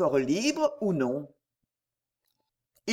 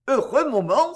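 higher, louder burst of joy; joyful cry; 5 semitones higher, 4 dB louder than usual. A narrator's reading. Edgar, finally happy, cries out higher and louder. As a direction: cry out in rapture. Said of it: "s'écria-t-il enfin".

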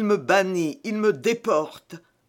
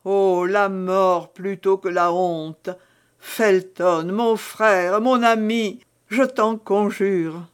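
imploring plea; 2 semitones higher, 4 dB louder, slower than usual. Acted. Milady implores Felton to let her die.

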